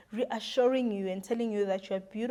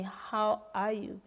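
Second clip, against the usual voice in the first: tender question; 4 dB quieter, slower than usual. Retold or imitated. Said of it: "he looked into my eyes and asked me".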